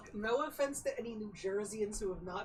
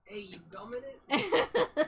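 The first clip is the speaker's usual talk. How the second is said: laughing; 3 semitones higher, 8 dB louder, slower than usual. Real, not acted. Laughing loud question.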